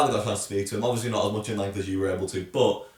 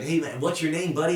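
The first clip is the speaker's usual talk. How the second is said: mock American; 8 semitones higher than usual. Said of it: "he's so American".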